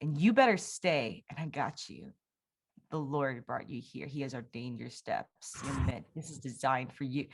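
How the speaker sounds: quiet, tender voice of a kind roommate; hushed, sincere encouragement; soft reassurance. Retold or imitated. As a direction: comfort her gently and softly.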